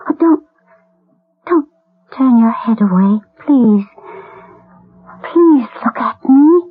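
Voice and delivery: begging through tears; tearful pleading. Acted. Mother begging the boy not to turn his head away, tearful.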